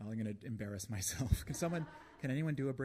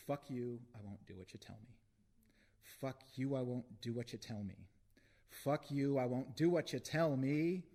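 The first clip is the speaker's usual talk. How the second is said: building defiant refrain; 3 semitones higher than usual. Acted. Poet quotes a protest song in a cell, building defiant shout. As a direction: escalate each repeat into a raised cry.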